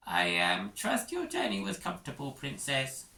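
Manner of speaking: high, hesitant official voice; flustered schoolmaster greeting royalty; nervous Prongle. Acted. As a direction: fluster through the welcome.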